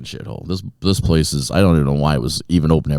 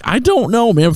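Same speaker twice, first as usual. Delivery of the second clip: high, loud mock exasperation; helpless confusion; 6 dB louder, slower than usual. Clueless about the angry strangers, high exasperated confusion. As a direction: throw it up high, totally at a loss.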